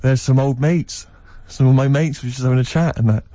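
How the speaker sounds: mock-innocent brush-off to the cashier; brilliantly casual. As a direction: play it cool and unbothered. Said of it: "brilliantly, I went".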